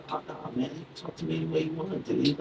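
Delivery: soft, laid-back buddy talk; playing cool. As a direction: act like one of the kids, casually. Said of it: "like, the cool".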